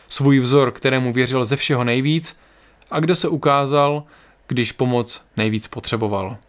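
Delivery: calm story reading voice; story narration. A narrator's reading. Narrator telling listeners the journey south, calm story reading. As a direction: read the tale steadily to listeners. Reads fantasy story aloud.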